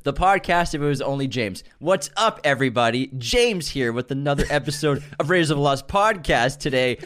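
a light mimic of James's host voice; imitating James. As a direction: parrot his podcast-intro inflection. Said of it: "He's got your inflection".

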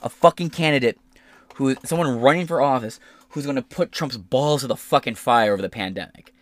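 excited. Retold or imitated. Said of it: "I'm like".

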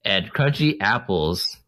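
bad ad read. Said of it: "you kinda stumbled on a lot of parts there".

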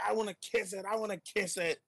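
high, eager mock whine; imitating Randy. Fan repeats Randy's line to his friend, high eager whine. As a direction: plead like a giddy kid. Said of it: "He's like".

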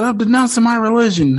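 high, mocking dramatic voice. Mocking Mark throwing his yarmulke, high and dramatic. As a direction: ham it up mockingly.

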